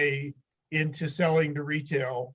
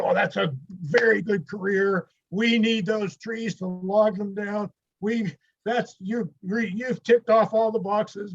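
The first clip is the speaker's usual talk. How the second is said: higher, lightly voiced official enthusiasm; approving interviewer; 4 semitones higher than usual. Interviewer endorsing his career choice, lightly mimicked approval. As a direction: imitate an interviewer's hearty approval.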